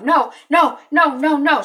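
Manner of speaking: high, loud mock panic; imitating someone in a loud panic; freaking out. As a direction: rattle off frantic retold no's. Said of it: "we find Kate freaking out".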